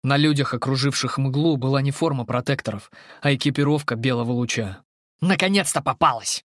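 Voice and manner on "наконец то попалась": growled triumph; growling. Acted. The planetar, over the chained creature, growling. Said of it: "прорычал планетар".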